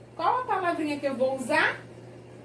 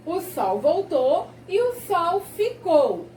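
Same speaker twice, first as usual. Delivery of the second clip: measured, clearly spaced verse reading; poem read to children. Acted. Teacher reading the sun poem with children at home, measured verse. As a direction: read each verse out deliberately for small pupils.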